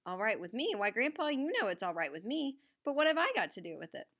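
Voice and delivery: high, fast astonished question; surprised. Acted. Boy astonished by offer.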